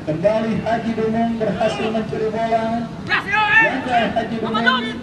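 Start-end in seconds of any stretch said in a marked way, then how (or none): 3.0-5.0 much higher, slow, stretched-out call; excited drawn-out call. Acted. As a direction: stretch out the miss like a big moment. Missed chance called out.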